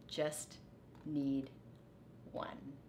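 soft, breathy ending; soft fading whisper; tender whisper. Acted. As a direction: let it fade away gently. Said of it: "thought Rat".

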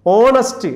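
ഓണസ്റ്റ് starting on an open O, no H; silent H. Shown as a demonstration. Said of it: "അവിടെ എച്ച് ഉച്ചരിക്കത്തില്ല". (ഓണസ്റ്റ്, എച്ച് ഉച്ചരിക്കാതെ 'ഓ' ശബ്ദത്തിൽ)

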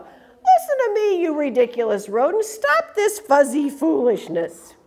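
high, stern scold, slowing at the end; a mild hint of an angry bully; bossy scolding. Big Bark scolds the fuzz players.

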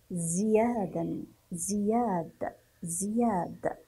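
زياد opened with a clear "zi"; teacher's model "zi-yaad" for زياد; kasra on zay. Shown as a demonstration. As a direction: slowly sound the i after z in زياد. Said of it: "ولكنه مكسور، لذلك سنقول".

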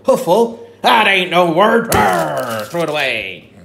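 loud high scornful pirate; scornful pirate shout. Pretend. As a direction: bellow that it's no word. Pirate rejects silly word.

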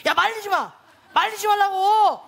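mock irritated protest, rising to a slow, drawn-out shout; acted quarrel. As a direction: push off a friend breaking up the fight. Acted quarrel with intervening friend. (말리는 친구에게 버럭하는 척)

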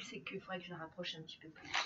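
whisper. Real, not acted. Aside while fixing the lamp.

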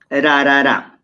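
"ra" with a single light tap of R; simple tapped R. Shown as a demonstration. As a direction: tap the R once on each "ra". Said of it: "la pronunciación de este consonante es ra".

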